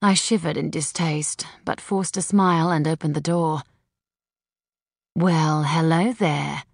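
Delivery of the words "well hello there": slow, sultry greeting. Acted. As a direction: purr it invitingly. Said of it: "in what I hoped was a suitably sultry voice".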